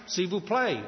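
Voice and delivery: "S'il vous plaît" in plain French; light French; French phrase. Shown as a demonstration. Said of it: "I'd say that in French".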